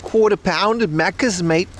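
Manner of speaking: put-on Aussie accent; Australian accent. Streamer imitates Australian friend from previous job, Australian accent. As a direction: imitate an Australian ordering at Macca's. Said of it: "She always talked like that".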